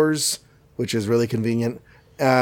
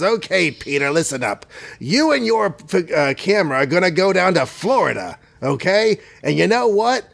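tA; 5 semitones higher than usual. Acted. Jonah orders Peter around.

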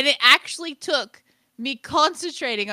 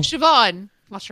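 louder Irish name announcement; Irish accent; 6 dB louder than usual. Retold or imitated. Imitating the pottery show lady, Irish accent. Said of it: "that one Irish lady on the pottery show".

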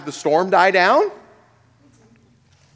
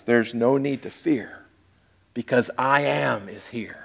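soft reassurance; 4 semitones lower, 6 dB quieter than usual. Retold or imitated. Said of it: "Jesus is saying something like this".

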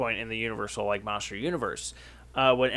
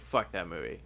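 laughing; 7 semitones lower, 8 dB quieter than usual. Retold or imitated. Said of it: "And I'd be like".

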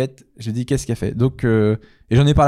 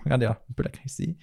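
soft petting voice; 10 dB quieter than usual. Pretend. Mock petting a tamed animal.

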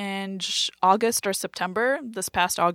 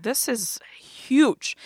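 very slow, breathy stage whisper; awed whisper; 5 semitones higher, much slower than usual. Retold or imitated. Comedian seeing the opera house, awestruck whisper. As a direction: whisper it, stretched out in wonder. Retold awe at grand room.

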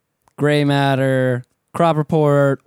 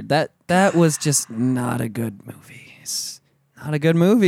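whispered. Real, not acted. Whispered aside about the movie.

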